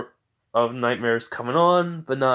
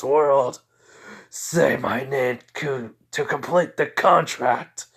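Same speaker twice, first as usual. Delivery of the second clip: menacing demon voice. Acted. Inner fire demon speaks.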